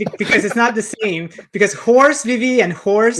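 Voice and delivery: talking through laughter; laughing. Real, not acted. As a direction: laugh while you say it. Laughing while explaining horse impressions.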